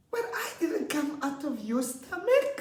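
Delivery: put-on high, earnest child voice; literal little girl. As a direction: object like a serious little girl. Girl objecting, voiced by teacher.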